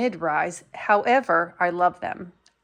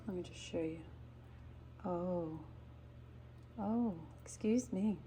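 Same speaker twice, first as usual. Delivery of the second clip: leaning in to whisper; 15 dB quieter than usual. Real, not acted. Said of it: "I feel like I have to whisper".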